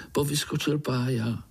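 ordinary delivery, nothing marked

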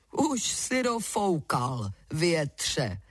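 ordinary delivery, nothing marked

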